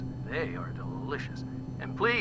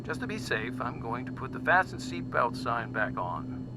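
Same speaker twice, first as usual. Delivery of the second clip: easygoing captain's cabin patter; friendly, lightly relaxed announcement; cheery, relatable; 7 semitones higher, 5 dB quieter than usual. Acted. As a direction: reassure the passengers after turbulence. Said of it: "It was cheery, relatable".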